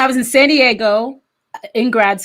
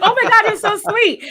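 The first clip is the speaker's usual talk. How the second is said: mock prince; 12 semitones higher than usual. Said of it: "He's like".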